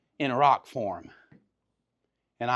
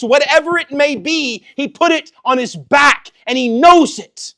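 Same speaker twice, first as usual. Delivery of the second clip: high, loud, driving sermon delivery; raised pulpit cry; impassioned preaching; 12 semitones higher, 11 dB louder than usual. Acted. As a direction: preach it out with full force. Preaches at full force.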